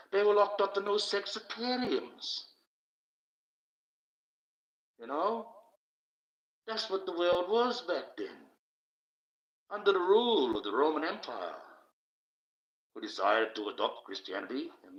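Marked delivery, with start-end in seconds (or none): 0.1-11.5 high-pitched. Real, not acted. Rant pitched way up.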